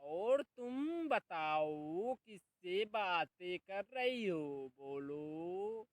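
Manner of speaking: loud, slow, drawn-out calls to someone unseen; shouting mother-in-law. Acted. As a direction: bellow it across the house, demanding an answer. Mother-in-law calling out at home.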